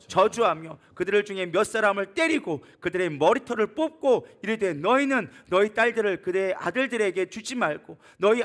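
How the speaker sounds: measured, stressed pulpit reading; scripture reading. Real, not acted. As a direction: read the verse out deliberately. Reads the scripture verse aloud.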